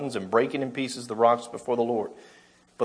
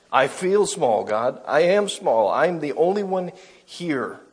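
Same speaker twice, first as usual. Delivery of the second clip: higher, small frightened voice of the prophet; small, afraid Elijah; 4 semitones higher, slower than usual. Acted. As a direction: let Elijah sound tiny and scared. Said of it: "Elijah feels small and alone and afraid".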